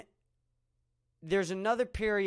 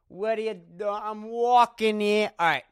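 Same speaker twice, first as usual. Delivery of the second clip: put-on New York accent; 5 semitones higher, 7 dB louder than usual. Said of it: "movie quote impression".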